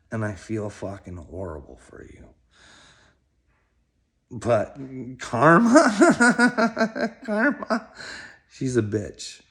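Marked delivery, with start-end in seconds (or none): 5.2-7.9 giggling singsong karma; laughing taunt. Real, not acted. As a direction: cackle the word karma like a gleeful jab.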